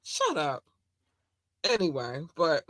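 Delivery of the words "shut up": high, slow, laughing cry; laughing exasperation. Real, not acted. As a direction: laugh through the disbelief.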